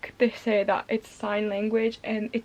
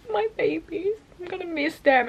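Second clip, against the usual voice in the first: mock pining; 5 semitones higher than usual. Acts out pining for the characters.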